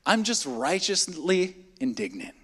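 a soft, slow, mock-righteous excuse; mock pious excuse. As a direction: say it softly with false piety. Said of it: "here it is".

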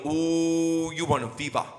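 imitating his son. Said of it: "and he go".

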